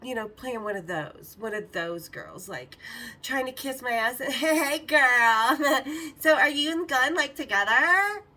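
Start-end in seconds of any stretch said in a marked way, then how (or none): 4.2-8.2 high, loud, fake-sweet squeal broken by laughter; imitating a gushing groupie through giggles; mock sucking-up girl. Mocking Natalie to the narrator, gushing squeal.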